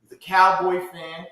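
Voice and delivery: slow, drawn-out teasing warning about "Cowboy". Shown as a demonstration. Host warns listeners about his friend, slow teasing. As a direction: drag out "he's a Cowboy fan" like a confession. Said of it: "I will warn y'all".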